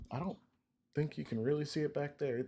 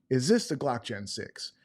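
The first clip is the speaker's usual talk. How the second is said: YouTuber voice; 2 semitones higher than usual. Shown as a demonstration. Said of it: "my YouTuber voice".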